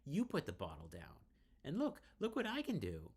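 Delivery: put-on high, loud childish boasting; giddy showing off. Drunk Riley taunting her friend, giddy and loud. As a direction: show off like a tipsy kid.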